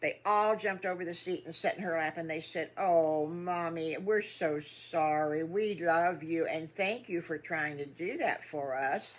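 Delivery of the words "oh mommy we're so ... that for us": slow, sorry consoling; soothing, heartfelt apology; tender sympathy. Acted. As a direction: comfort mama gently, drawing the words out. Piglets comfort their crying mother.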